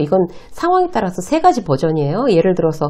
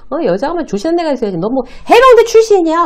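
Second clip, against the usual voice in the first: high, loud teasing jab; mocking senior; 10 semitones higher, 4 dB louder than usual. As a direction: sneer like a smug senior mocking a junior. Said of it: "으하하하 막 자기가 혼자 웃는 거죠".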